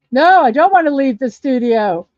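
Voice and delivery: loud, falling panicked no; panicked outburst. Real, not acted. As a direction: blurt it out in real alarm. Panicking over stuck picture on stream.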